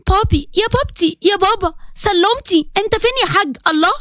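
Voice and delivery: put-on high, teasing girl calling her dad; sing-song a child looking for her father; playful daughter.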